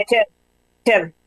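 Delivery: "Rachel" with a faint E-like vowel after the R; demonstrated pronunciation. Shown as a demonstration. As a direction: show how "Rachel" is said, stress on the last syllable. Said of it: "Como si tuviera una E que no tiene".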